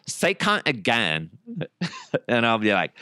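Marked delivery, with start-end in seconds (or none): 0.1-1.3 slow, lightly voiced woman's request; a hint of a giggly lady egging him on; imitating a woman. Imitating ladies who ask him to say it, lightly voiced. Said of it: "Is he doing an impression of me".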